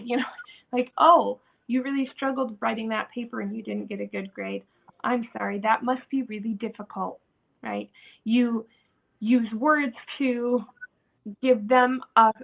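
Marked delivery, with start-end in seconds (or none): 1.0-7.2 gently understanding, a little lower; mild sympathy. Acted. Parent comforts child over a bad grade, mild sympathy.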